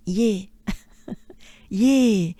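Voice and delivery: "Ye" in a French accent, pure closed vowel. Shown as a demonstration. Teacher demonstrating to learners, French-accented ye. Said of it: "with a French accent".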